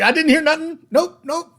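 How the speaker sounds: high, loud creepy creature voice; Smeagol. Retold or imitated. Elf covers his ears and denies hearing, loud high Smeagol voice. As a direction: play dumb like a cornered creature. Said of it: "Like, like Smeagol".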